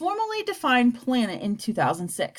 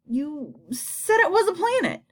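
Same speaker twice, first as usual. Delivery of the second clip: between gulps; 6 semitones higher than usual. A narrator's reading. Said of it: "in between gulps".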